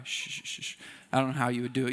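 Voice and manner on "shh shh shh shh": unvoiced shh, much softer; breathy hushing to calm a crier; mock shushing whisper. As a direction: whisper the shushes like calming a child. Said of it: "you would have sat there with them like".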